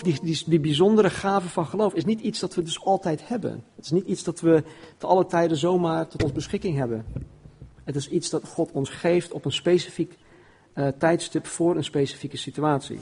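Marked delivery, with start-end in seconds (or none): none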